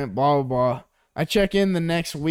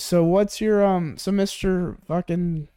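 tag; 5 semitones higher than usual. Retold or imitated. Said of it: "So this chick goes".

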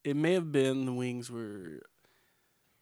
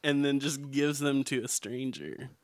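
baffled rant; 2 semitones higher, 7 dB louder, slower than usual. Retold or imitated. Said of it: "I was like".

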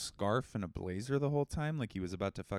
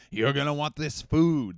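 creepy food raider; 6 semitones higher, 8 dB louder than usual. Retold or imitated. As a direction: lure them in like a vampire. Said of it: "They say it like that".

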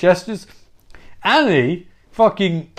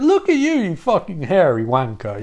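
mocking; 3 semitones higher than usual. Bobby insults Annie.

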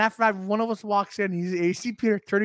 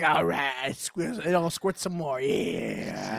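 unfazed lover; 8 semitones lower, 5 dB quieter, much slower than usual. Acted. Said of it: "if it was me in that position".

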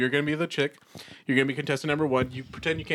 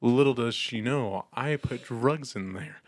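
Bill Cosby impression; 4 semitones lower, 4 dB quieter, slower than usual. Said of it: "I'm Bill Cosby".

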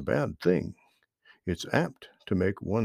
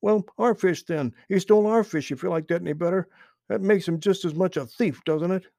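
growled; 9 semitones higher, faster than usual. A narrator's reading. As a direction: hammer the point home crossly. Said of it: "growled Little Joe".

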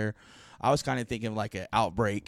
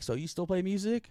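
higher-pitched imitation of an aunt; aunt's voice; 9 semitones higher than usual. Visiting aunt asks nephew about music, imitated high voice. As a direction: raise it into a chatty aunt question. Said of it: "my aunt was like".

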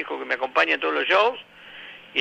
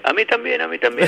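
high eager punchline voice; higher eager little dwarf; 9 semitones higher than usual. Retold or imitated. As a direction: blurt it in a high voice.

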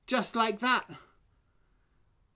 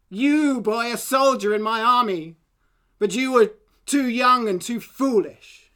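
mocking king's voice, louder; scornful king; 5 dB louder than usual. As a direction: talk down to the boy like a king.

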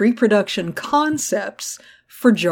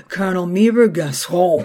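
Mace Windu. Retold or imitated. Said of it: "the frisson that Mace Windu put on his name".

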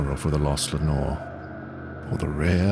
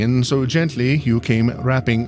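high, hurried apologetic speech; nervous apology; 6 semitones higher than usual. A narrator's reading. Narrator apologising to the unseen visitor, high and hurried. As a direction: apologise fast and high, half afraid.

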